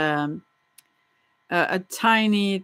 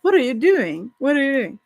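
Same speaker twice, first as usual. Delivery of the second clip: excited quote; 5 semitones higher, 4 dB louder than usual. Retold or imitated. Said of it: "And then you say".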